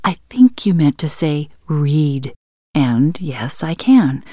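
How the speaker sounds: calming voice. Acted. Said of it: "his most calming voice".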